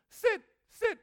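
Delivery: slow, drawn-out sit sit; drawn-out sit, sit like a dog command. Shown as a demonstration. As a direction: give the dog a slow, firm order. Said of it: "我就假装狗来了".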